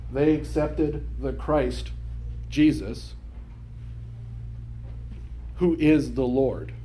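slow, weighty read leaning on who; slow down and hit who is the Lord; deliberate stress on who. Shown as a demonstration. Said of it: "the emphasis is on who they accepted".

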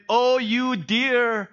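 mock-exasperated rebuke of foolish friends; exasperated scolding. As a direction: drag out the dear idiots, then burst with disbelief. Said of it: "He puts it".

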